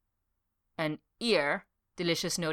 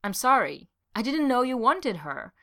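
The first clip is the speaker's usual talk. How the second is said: contrite; 6 semitones higher, 4 dB louder than usual. Acted. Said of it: "His voice quickly shifted to contrition".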